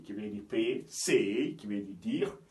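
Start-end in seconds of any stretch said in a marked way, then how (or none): 0.9-1.5 "Say" with a long gliding "ey"; English AY sound. Shown as a demonstration. Teacher reading the next example, drawn-out AY. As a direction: stretch the vowel of "Say". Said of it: "ça donne le son A".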